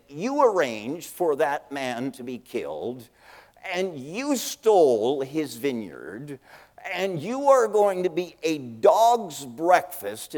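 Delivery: slow, rising to a loud condemnation; stern prophet. Retold or imitated. Old prophet Elijah confronting the king, slow and stern. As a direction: thunder the judgment slowly.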